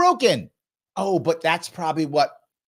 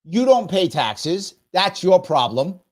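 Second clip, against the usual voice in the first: mock outrage; 5 dB louder, slower than usual. Mocking a speaker's claim on taxes.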